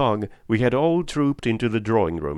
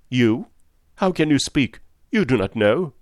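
agitated protest; 4 semitones higher, 4 dB louder than usual. Acted. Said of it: "he broke off abruptly".

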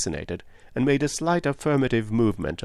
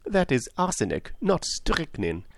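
higher voice, slowing at the end; mild; 8 semitones higher than usual. A narrator's reading. Detective corrects an angry woman, mildly. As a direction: gently correct a detail. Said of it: "said Poirot mildly".

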